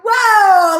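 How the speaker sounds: loud, high burst of awe; big overwhelmed whoa; excited whoa. Real, not acted. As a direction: let it burst out of you. Overwhelmed exclaiming.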